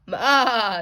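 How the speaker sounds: a bleating goat sound. A narrator's reading. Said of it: "said the goat".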